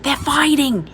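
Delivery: put-on high boy's voice; breathless news from the door; boy reporting. A narrator's reading. Jamie reporting back to his sister, high and eager. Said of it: "he said".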